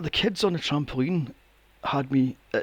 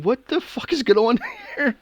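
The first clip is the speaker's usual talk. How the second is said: higher, laughing what the fuck; laughing disbelief; 8 semitones higher, 3 dB louder than usual. Retold or imitated. Reacting to kids running riot, laughing in disbelief. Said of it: "And I'm going".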